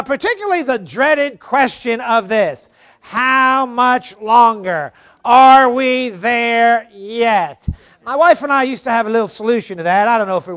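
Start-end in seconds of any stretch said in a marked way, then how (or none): 3.0-7.7 put-on drawn-out whining child's plea; slow mock whine, louder; whiny kid. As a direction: drag it out like a bored kid in the back seat. Kids whining from back seat.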